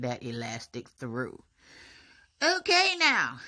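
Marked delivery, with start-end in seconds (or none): 2.4-3.4 startled high okay. Real, not acted. Bracing for the painful part.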